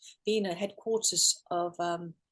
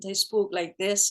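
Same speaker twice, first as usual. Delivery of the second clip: slow, lightly imitated Scottish accent; 3 dB louder than usual. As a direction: imitate a Scotsman's accent, drawn out. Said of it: "we've got this Scottish accent".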